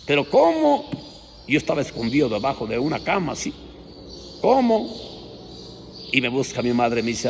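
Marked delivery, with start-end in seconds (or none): 0.1-0.9 high, startled cry of disbelief; shocked mother. Retold or imitated. Shocked mother hearing the news, high startled cry. Mother hears her son killed calf. 4.4-5.1 high, startled cry of disbelief; shocked mother. Retold or imitated. Shocked mother hearing the news, high startled cry.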